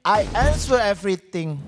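low, measured English catchphrase; tagline response. Pretend. Host answers his own segment call, low tagline response. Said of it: "maka ada tagline-tagline yang harus dilakukan".

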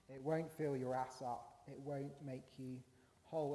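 lightly acted tired veteran, unhurried; world-weary older cop. Repeating the older cop's advice, lightly world-weary. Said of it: "the world-weary older cop".

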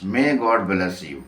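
"May God bless you" repeated at a crawl, word by word; very slow repeat. Shown as a demonstration. Teacher repeating the example sentence, very slowly. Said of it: "এটি কী রকমের sentence".

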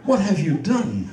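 slow, drawn-out delivery; Shakespearean declamation. Acted. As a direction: recite it like a stage tragedian. Copying the coach's declamation.

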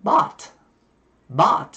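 American "bought" with a vowel halfway between ah and o; American open-vowel "bought"; American accent. Shown as a demonstration. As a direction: open up "bought" toward "baht", American style. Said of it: "giọng Mỹ thì sẽ đọc như thế này".

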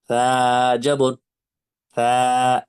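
সা with the vowel stretched too long, wrongly; a wrong reading that lets the vowel drag; drawn-out vowel. Shown as a demonstration. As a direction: drag out the a in সা like a struggling student. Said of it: "পাতলা করতে গিয়ে ... হারকাতে টান হয়ে যাচ্ছে".

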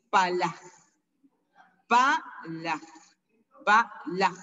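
"pala" repeated in separated syllables, ending breathily on "la"; soft vowel. Shown as a demonstration. Teacher repeating the word for face, softened "pala". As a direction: say "pala" as "pa, la", easing off the end. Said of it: "Así se pronuncia".

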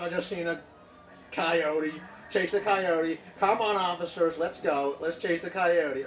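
mock Canadian accent, excitable patter; put-on Quebec accent. Driver daring officers to chase, mock Quebec accent. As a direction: rattle it off in a fake Quebec accent. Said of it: "it's Quebec accent".

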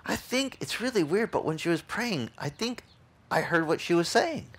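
high, soft imitated cowboy voice; cowboy guy. Cowboy guy answers the pastor about her prayer, high soft imitation. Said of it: "one of the cowboy guys goes".

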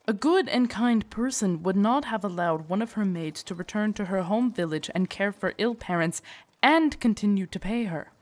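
earnest protest, stressing key words; lively, emphatic pitch swings; insistent praise. Acted. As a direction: argue her goodness with rising fervour. Guard insisting on lady's goodness.

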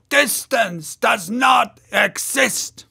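slow, high, loud exclamation; ecstatic shout. Acted. Maston repeating the orator's claim, shouting with wild enthusiasm. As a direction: shout it out, carried away.

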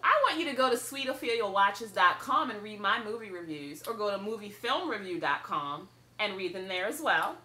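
talking while chewing gum; words round a wad of gum. Real, not acted. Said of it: "sorry about the rampant gum chewing".

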